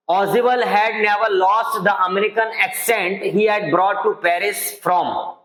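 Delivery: very slow, careful English reading. Shown as a demonstration. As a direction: dictate the sentence word by word. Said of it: "teacher reads English sentence slowly". (धीमी, साफ़ पढ़ाई)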